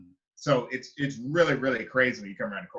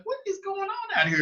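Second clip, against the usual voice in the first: much higher, incredulous question; high bewildered. Retold or imitated. Watched by strangers while eating, high bewildered cry. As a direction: ask it in total disbelief. Sees crowd outside window.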